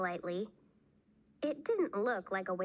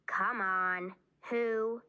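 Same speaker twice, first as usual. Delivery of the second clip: mildly insistent prodding at usual pitch; pressing; 3 dB louder, slower than usual. A narrator's reading. Bean presses Ivy for a name, mildly insistent. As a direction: coax for an answer, firmly but evenly.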